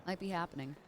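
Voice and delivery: stuffy, blocked nose; congested voice. Real, not acted. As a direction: talk through a stuffy nose. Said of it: "Ugh, I'm congested".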